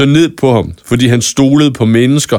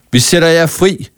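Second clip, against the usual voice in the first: higher, ringing shout; Lærke shouts to the monsters, higher and ringing; 6 semitones higher than usual. Acted. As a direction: free them with a cry. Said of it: "råbte Lærke".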